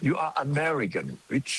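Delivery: slow, high, showy English with a put-on foreign accent; affected English accent. Shown as a demonstration. Showing off an affected foreign accent to impress listeners with English. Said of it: "ผมก็ดัดจริตนะ".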